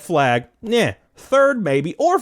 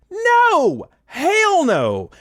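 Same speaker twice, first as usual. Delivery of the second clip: emphatic refusal; 9 semitones higher, much slower than usual. Retold or imitated. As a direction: blurt out a flat refusal with a laugh in it. Refusing the job offer.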